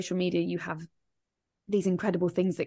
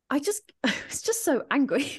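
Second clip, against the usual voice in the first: laughing angry; 7 semitones higher than usual. Real, not acted. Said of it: "as you can see, I get pretty annoyed".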